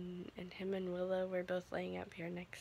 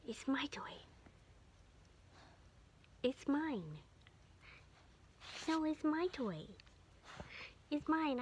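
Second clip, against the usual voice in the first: higher sing-song teasing; teasing the dog; 7 semitones higher than usual. Pretend. Owner playfully claiming the dog's toy, higher teasing voice. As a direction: tease the dog with her toy.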